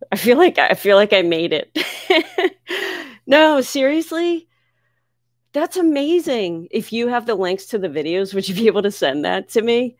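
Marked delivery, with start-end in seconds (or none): 0.1-1.8 1 laughing joy. Real, not acted. Overjoyed at shout-out. 1.8-3.0 breathy high-pitched giddy laugh. Real, not acted. Streamer hearing of shout-outs, giddy laugh. 3.3-6.7 much higher, slow stunned no seriously; amazed. Real, not acted. Streamer told of shout-outs, amazed.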